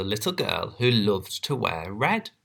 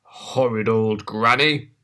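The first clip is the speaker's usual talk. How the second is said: growl 1. Acted. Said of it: "the wolf growled".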